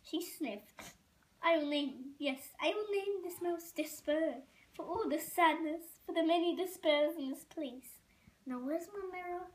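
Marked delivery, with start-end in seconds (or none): 1.4-9.5 lightly voiced French mother, grandly naming; French accent. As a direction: melodramatic French pronouncement. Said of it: "A, a French accent".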